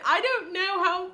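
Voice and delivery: uncertain stab at posh British; put-on British, breaking into a laugh; fumbling a posh British accent. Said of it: "like, a posh accent?".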